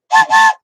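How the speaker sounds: sudden high squealing laugh; real high-pitched laugh; burst of laughter. Real, not acted. Delighted by viewer's gross username.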